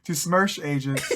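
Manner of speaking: hammed-up Russian reading; Russian accent. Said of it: "how to do a Russian accent".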